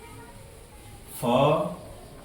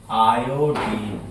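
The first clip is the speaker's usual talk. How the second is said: lower, drawn-out "आयोडीन"; slow repetition; 6 semitones lower, much slower than usual. Shown as a demonstration. Teacher repeats an element name for pupils, slow and low. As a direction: stretch "आयोडीन" out slowly as for dictation.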